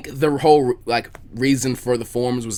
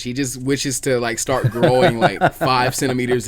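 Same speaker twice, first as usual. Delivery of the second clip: chuckling through the words; laughing; 3 dB louder than usual. Real, not acted. Amused at Frieza's growth wish, laughing. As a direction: laugh while you get the joke out.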